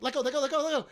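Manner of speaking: retold panicked plea. Retelling the friend begging to be let go. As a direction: plead fast, half-laughing panic. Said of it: "he just immediately is like".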